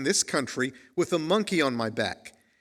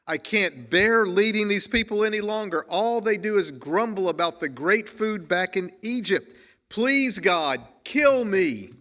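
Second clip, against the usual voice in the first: raised, pleading plea, higher and louder; desperate cry to God; 5 semitones higher, 3 dB louder than usual. Retold or imitated. Moses worn out by grumbling people, cries out to God in a raised plea. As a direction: beg God out loud, at the end of his rope. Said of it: "He cries out".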